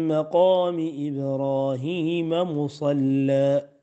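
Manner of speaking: slow measured recitation; Quran recitation. Acted. Teacher recites the verse slowly as a model for reading. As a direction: recite it slowly, each word drawn out.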